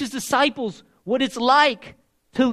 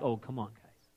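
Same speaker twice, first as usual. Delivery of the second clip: exasperated Jesus; 11 semitones lower, 13 dB quieter than usual. Retold or imitated. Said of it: "now he's like".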